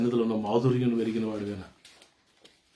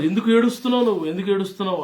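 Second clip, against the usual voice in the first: angels asking, hammed up; 9 semitones higher, 6 dB louder, much faster than usual. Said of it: "అని అడుగుతుంటే".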